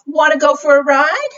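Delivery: high, quick inviting question; storybook horse. Acted. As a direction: lightly voice an eager horse. Reader voices the horse's question.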